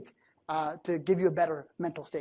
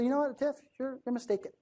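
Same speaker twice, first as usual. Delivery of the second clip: higher, softer, hesitant let-down; gentle correction; 5 semitones higher, 7 dB quieter than usual. Acted. Critic gently telling the speaker of a mistake, soft and tentative. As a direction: soften the blow with a lighter, higher voice. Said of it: "in the same tone".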